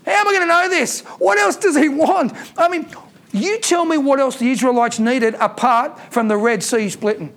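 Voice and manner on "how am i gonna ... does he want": mocking doubt.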